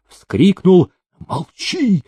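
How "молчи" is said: much higher, sharp threat; threatening. A narrator's reading. Demidov silences the steward with a sharp high threat. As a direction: cut him off with a threat. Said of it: "пригрозил Демидов".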